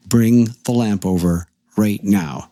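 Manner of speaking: slow, emphatic retold order; insistent command. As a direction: weigh each word, allowing no argument. Retold demand repeated more insistently.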